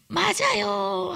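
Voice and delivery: high, slow tearful yes; crying "yes". Retold or imitated. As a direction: break into tears on it. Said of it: "하면서 cry". (울먹이며 천천히 "맞아요")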